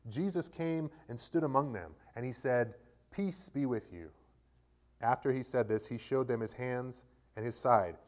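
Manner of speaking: steady, measured Bible reading voice; scripture reading. A narrator's reading. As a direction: read the Gospel to the congregation, clearly.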